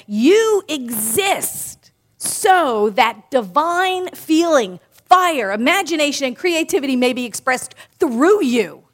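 slow, solemn reading of a spiritual quote; solemn quotation. Acted. Minister quoting Ernest Holmes to the congregation, slow and solemn. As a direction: read it slowly and reverently, like scripture. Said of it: "Ernest Holmes, in this thing called life, said".

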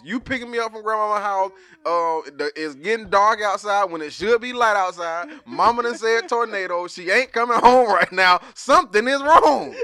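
put-on rising child alarm; child's reasoning voiced. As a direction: list the clues like a scared kid. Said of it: "she put two and two together".

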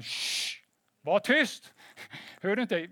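sharp shush, then a loud order for silence; scolding hush. Retold or imitated. Religious people silencing the blind beggar, loud mock scolding. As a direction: imitate an indignant crowd hushing someone loudly. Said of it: "religiösa människor som bara".

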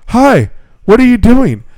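high, slow, sing-song teacher greeting; mimicking the teacher. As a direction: chirp it up high like an eager teacher. Mimics teacher interrupting her nap.

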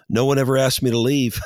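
put-on quoting the old pastor through a laugh; retold punchline, laughing; laughing quote. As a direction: say it while breaking into laughter. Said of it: "and he's like".

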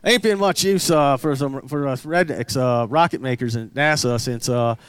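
put-on redneck twang. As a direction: lament like a redneck rocket maker. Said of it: "doing the redneck voice".

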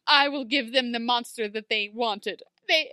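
grand, self-sacrificing declaration, lightly mocked; mildly melodramatic. Ruby giving herself up to the mob, mock-melodramatic. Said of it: "another very melodramatic speech".

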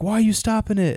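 high, animated quote of the prisoner; mock bewildered demand; acted indignant question. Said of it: "he's like".

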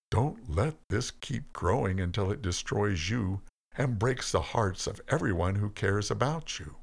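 plain reading voice

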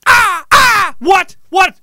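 high, loud panicked yelps; startled yelps. Retold or imitated. Kid yelping in fright at the watching crow. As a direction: jump as if the crow just caught your eye.

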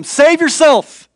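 loud, slow jeering cry; mocking taunt. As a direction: sneer it up at him. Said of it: "they were mocking him".

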